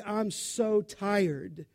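slow, lightly voiced exhausted mom; a hint of a worn-out mother; understated tired sigh of a mother; mild mock weary mother. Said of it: "for a mother to say".

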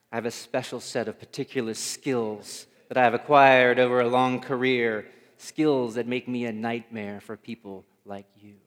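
put-on a lightly done Liam Neeson menace, Irish accent; menacing Liam Neeson quote in a light Irish accent; Liam Neeson impression. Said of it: "that's not even the right accent".

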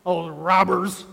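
a hint of a proud praying Pharisee looking down on others; smug Pharisee. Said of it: "I'm not sure if he spoke like that".

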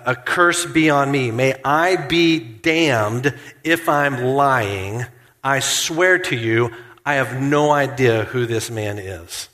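slow, emphatic sworn denial; lightly acted oath, each phrase weighted; swearing an oath. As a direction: swear it slowly and firmly. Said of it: "when he curses and swears".

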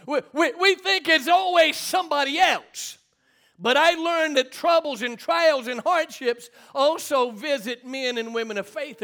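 emphatic preaching. Real, not acted. Preacher to church folks about troubles, emphatic preaching.

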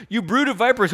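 loud and high, hurling the insult; preached rebuke. Acted. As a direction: thunder it like a prophet. John's rebuke, shouted out.

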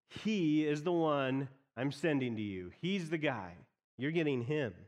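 mild host payoff; game show reveal. Shown as a demonstration. Preacher finishing the game show reveal to the church, mild. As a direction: deliver the prize reveal with a light flourish. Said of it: "announce winning a prize on a game show".

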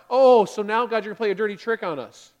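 loud, indignant whine; hammed-up grumble; mock complaining. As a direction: act out a cheated crowd. Voicing complaining people at Marah.

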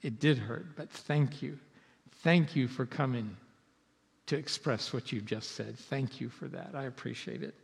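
hurt but thankful, said softly; grateful response. Shown as a demonstration. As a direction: thank them quietly and sincerely. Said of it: "express gratitude".

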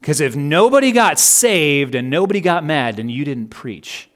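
a light touch of North Carolina country weight, falling away; North Carolina accent. Retold or imitated. Preacher quoting someone's blunt verdict, imitated North Carolina accent. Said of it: "It was this North Carolina type accent".

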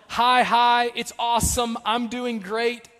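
mock cheery. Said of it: "David quickly moves from".

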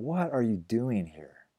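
slow, gentle asking; gentle question. Shown as a demonstration. Pastor voices God's question to Elijah, slow and gentle. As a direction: ask it tenderly, like an invitation. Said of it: "a very gentle question".

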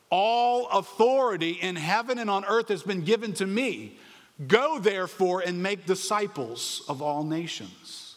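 a preacher proclaiming Jesus' final command to the congregation. Acted. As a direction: ring it out like a sermon climax. Preacher proclaiming the Great Commission.

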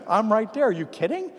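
high, quick eager agreement; eager yes. Retold or imitated. To a neighbour asking prayer for his dog, eager high yes. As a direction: jump at the chance to help.

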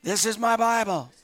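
loud, firm declaration of faith; bold declaration. Real, not acted. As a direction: proclaim it boldly to the room. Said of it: "say it boldly".

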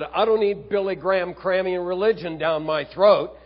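preacher voicing a furious golfer, half-acted; retold angry outburst. Golf pro snapping at a fellow pro, mildly angry. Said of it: "unleashed a torrent of cursing".

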